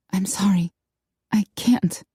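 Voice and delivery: Darcy whispering her refusal to Connor; whispered. A narrator's reading. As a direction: breathe the apology out in a whisper. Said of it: "Darcy whispered".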